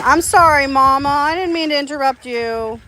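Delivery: high, cooing apology; apologetic pet-talk. Real, not acted. Owner apologizing to an interrupted mother hen, high pet-talk.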